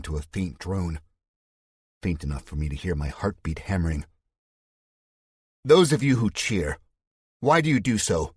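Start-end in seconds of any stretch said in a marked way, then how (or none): 5.7-8.3 plain-spoken showman. Acted. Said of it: "His southern drawl is gone. He sounds normal".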